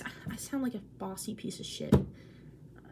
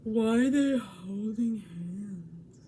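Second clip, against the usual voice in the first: slow, breathy whisper; whispered question; 2 semitones lower, much slower than usual. Retold or imitated. Friend asking about the doodle, slow whisper. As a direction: hush it like a puzzled secret. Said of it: "and she said".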